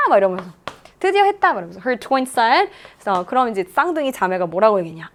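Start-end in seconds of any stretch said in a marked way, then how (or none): 1.0-1.5 high, restrained mock cry of triumph; retold scream. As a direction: imitate a player finally succeeding, pitched well up. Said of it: "소리 질러요". (높은 목소리로 기쁜 외침 흉내)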